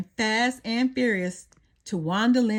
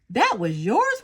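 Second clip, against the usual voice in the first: groaned; 3 dB louder than usual. A narrator's reading. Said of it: "Wally groaned".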